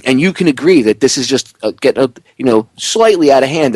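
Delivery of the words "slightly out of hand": dry sarcastic understatement. Real, not acted. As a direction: play down "slightly" with irony. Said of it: "I'm being sarcastic when I say slightly".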